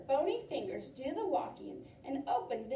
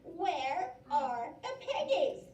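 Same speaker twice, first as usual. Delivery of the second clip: slow witch voice; 3 semitones higher than usual. Acted. Witch rants to farmer.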